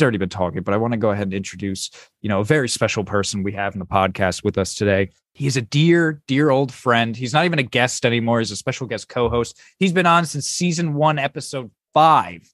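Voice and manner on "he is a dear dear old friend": dear leaned on, warm and drawn; stress on dear. Acted. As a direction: lean into dear, dear old friend. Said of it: "the way you put emphasis on it".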